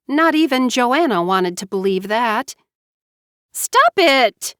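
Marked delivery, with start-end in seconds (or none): 3.5-4.5 high, loud angry snap; storming. A narrator's reading. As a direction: cut her off in anger. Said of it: "Mara Joy stormed".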